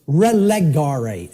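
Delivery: "relegare" slowly, as reh-leh-GAR-ay; "relegare" stretched syllable by syllable; slow sounded-out Latin. Shown as a demonstration. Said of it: "R E L E G A R E".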